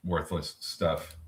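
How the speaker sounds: slow, mock-dismissive agreement; sarcastic. Trader joining the co-host's joke about financials, sarcastic. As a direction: play along, pretending to scoff. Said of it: "so am I".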